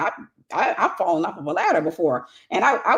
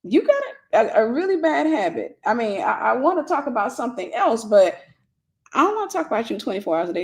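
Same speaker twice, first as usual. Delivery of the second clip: higher, lively teasing confrontation; frank talk to sis; 3 semitones higher than usual. Retold or imitated. Speaker tells her sister to stop talking about herself, teasing. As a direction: call her out with a laugh. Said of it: "stop the conversation and say".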